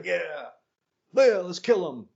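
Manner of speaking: escalating crowd holler; imitated mob cry. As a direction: egg on a mob, hammed up.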